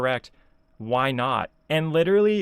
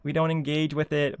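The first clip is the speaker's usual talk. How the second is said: higher, drawn-out mocking imitation; mock quote; 4 semitones higher, slower than usual. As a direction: parrot the hypocrite in a raised, slower voice. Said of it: "when you're like".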